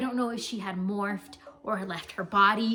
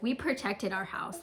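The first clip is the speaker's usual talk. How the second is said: nonchalant. Retold or imitated. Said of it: "talking to her, like, nonchalant".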